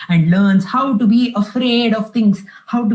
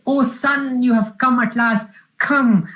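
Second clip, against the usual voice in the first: raised-pitch, lightly acted delight; happy father lion; 6 semitones higher than usual. Lion father greets his son at last, mildly joyful. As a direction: welcome him in a higher, gladdened storytelling voice. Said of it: "very happy".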